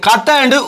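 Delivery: கத்தன்னு begun with a hard k in place of h; hard-k slip on கத்தன்னு; common mispronunciation. Retold or imitated. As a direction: open கத்தன்னு on k, as students do. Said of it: "உச்சரிக்கிறீங்க".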